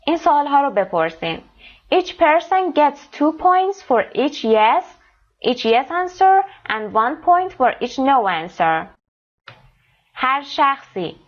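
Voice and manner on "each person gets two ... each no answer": slow careful reading. Shown as a demonstration. Teacher reads instructions aloud.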